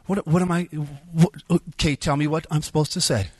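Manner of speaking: mildly exasperated, stammering into a demand; exasperated arguing. Retold or imitated. Speaker fights with God in his mind, exasperated. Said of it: "started fighting with God in my mind".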